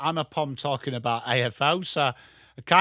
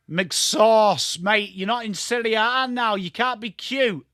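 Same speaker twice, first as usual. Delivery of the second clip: calling out a player; 5 semitones higher than usual. Real, not acted. Streamer calling out McSauce for showboating, teasing rebuke. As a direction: scold the player like a mate.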